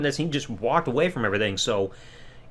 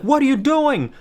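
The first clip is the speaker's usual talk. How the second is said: higher, stressing what, disbelieving; incredulous question; 11 semitones higher, 3 dB louder than usual. Retold or imitated. The Usos asking Sammy, higher incredulous demand. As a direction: ask it like you can't believe your eyes. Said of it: "They're like".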